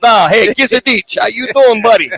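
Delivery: put-on slap him on the back like an old neighborhood pal; tough-guy buddy. Co-host pretending to greet Dominic in the dugout, hammed-up pal voice.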